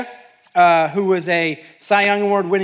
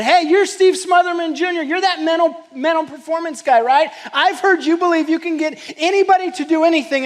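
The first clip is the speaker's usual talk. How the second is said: higher, mock-eager zookeeper; 10 semitones higher, 4 dB louder than usual. Keeper teasing the mental coach, higher voice. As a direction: play the penguin keeper as a cheeky challenger.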